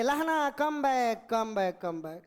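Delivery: half-shouted recall, pitch stepping down; retold shout. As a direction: imitate a general calling his soldier back, trailing away. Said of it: "general साहब चिल्लाने लगे".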